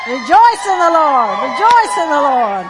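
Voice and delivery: loud, high chant of praise; rousing preacher chant; preaching at full force. Acted. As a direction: lead the church in shouting praise.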